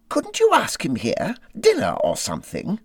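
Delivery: high, eager little Mole voice; a small creature pitching a hopeful idea. Acted. Mole pleading with Rat to invite Badger, high and eager.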